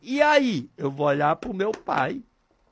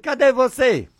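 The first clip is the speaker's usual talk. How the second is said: a gently raised call to God; prayer call; 6 semitones higher, 3 dB louder than usual. Shown as a demonstration. Preacher showing listeners his way of praying, lightly raised. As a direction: ask it lightly, like calling upward. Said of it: "Desse jeito".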